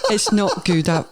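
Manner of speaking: put-on English accent breaking up into laughter; failed English accent. Retrying the consultant's line, English accent collapsing in laughter. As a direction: try an English accent through giggles. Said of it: "I can't even do it now".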